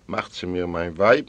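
usual speaking voice

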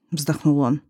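ordinary delivery, nothing marked

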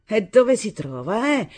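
aggressive questioning. A narrator's reading. Mother demanding the husband's whereabouts, aggressively. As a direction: stretch the question out as a challenge. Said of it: "quei modi aggressivi".

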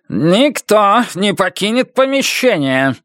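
commanding shout. Acted. Captain blocks the door.

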